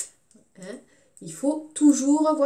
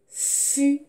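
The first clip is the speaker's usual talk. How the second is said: high isolated syllable; single syllable on a raised note; piano key sound; 5 semitones higher than usual. Shown as a demonstration. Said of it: "on peut imaginer qu'ils font des sons".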